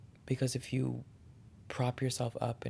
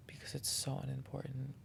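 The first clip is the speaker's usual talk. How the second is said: whispered aside; 2 semitones higher, 7 dB quieter than usual. Real, not acted. Telling listeners to tune out noise.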